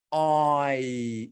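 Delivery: I modelled clearly for copying; teacher modelling the sound I; vowel I demo. Shown as a demonstration. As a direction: say I for the class.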